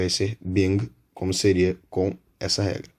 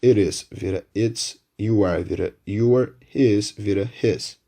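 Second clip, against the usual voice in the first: slow careful English examples. Shown as a demonstration. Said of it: "nas frases afirmativas".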